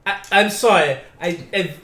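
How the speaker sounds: talking from inside a helmet; muffled helmet voice. Pretend. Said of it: "I have a helmet on".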